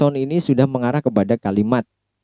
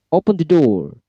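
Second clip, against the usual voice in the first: raised-pitch order with a falling end; high command intonation; 5 semitones higher than usual. Shown as a demonstration. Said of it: "itu akan menggunakan intonasi yang tinggi". (perintah tegas bernada tinggi)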